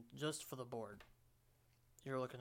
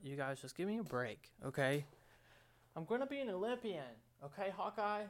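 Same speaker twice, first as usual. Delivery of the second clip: high, loud unhinged rant; like a madman; 6 semitones higher, 4 dB louder than usual. Real, not acted. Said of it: "I sound like a madman".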